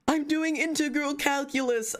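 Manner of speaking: high, pompous mock voice; high mocking voice of a smug viewer; mock nerd voice. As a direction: parody a self-important viewer. Mocks viewer claiming total focus.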